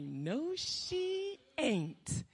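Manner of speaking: soft, dry under-the-breath no; muttered dismissal. Retold or imitated. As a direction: brush it off quietly to yourself. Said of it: "I'm like".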